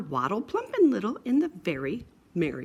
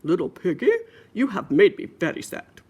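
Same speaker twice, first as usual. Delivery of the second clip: mock sad father; 6 dB louder than usual. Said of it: "Said the father".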